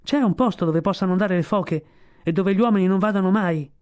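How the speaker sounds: domanda chiamata forte e più acuta; la giovane foca grida la domanda ai trichechi; domanda gridata. Acted. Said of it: "e così gridò". (domanda gridata più acuta)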